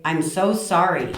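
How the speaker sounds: slow, heavily leaned-on apology; insincere apology. Shown as a demonstration. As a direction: overstress it so it sounds grudging. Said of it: "the tone of voice changes everything".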